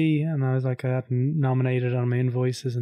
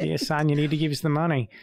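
put-on nasally Australian accent; 3 semitones higher than usual. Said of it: "doing quite a nasally Australian accent".

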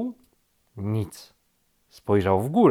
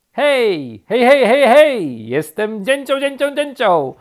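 high, loud, rapid-repeating bird voice; exuberant woodpecker; 12 semitones higher, 11 dB louder than usual. A narrator's reading. Woodpecker introduces itself from above, loud and exuberant. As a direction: holler with bouncing glee.

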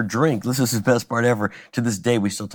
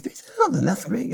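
higher, lightly mocking Jay voice; imitating Jay; 10 semitones higher than usual. Jay greets the comic in a higher mock voice. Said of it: "He's like".

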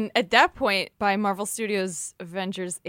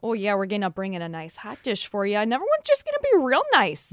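put-on Minnesota accent. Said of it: "in this whole entire accent".

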